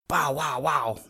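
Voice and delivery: a big dog's booming bark, loud; great deep dog voice. A narrator's reading. Bowser barking at the still frog, big booming dog voice. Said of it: "cried Bowser in his great deep voice".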